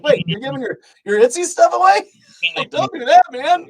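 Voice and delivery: high, loud disbelief at a friend; a mock-shocked "don't do that"; hammed-up retold surprise; incredulous. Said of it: "I'm like".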